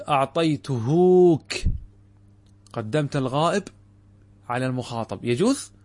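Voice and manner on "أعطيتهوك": slow wrong-form demo. Shown as a demonstration. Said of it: "فلا تقول".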